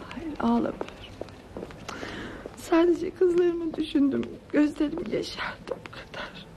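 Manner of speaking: holding back tears, fading into a whisper; tearful denial. Acted. Mother says she only thought of her daughters, tearful. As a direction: deny the crying, voice giving way at the end. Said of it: "ağlıyorsun galiba Firdevs teyze".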